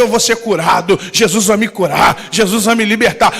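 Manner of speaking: loud, confident proclamation of faith; bold declaration. Retold or imitated. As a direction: shout the promise with conviction. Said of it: "você vai dizer".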